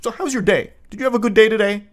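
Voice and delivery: a cheery NPC switching on mid-fight; mock chirpy NPC. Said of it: "like an N P C".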